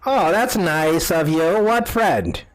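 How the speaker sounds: put-on slow old woman, pitch rising to question; old lady. Old lady asks travelers about their friend, old lady voice. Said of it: "this old lady comes out".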